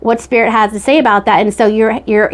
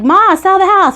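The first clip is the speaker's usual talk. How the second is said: pleading family; 9 semitones higher than usual. Retold or imitated. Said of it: "the family's like".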